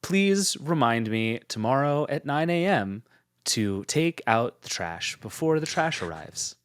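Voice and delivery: slow, monotone robot-like request; monotone careful voice. Shown as a demonstration. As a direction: talk to the phone like a robot. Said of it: "sort of monotone and careful".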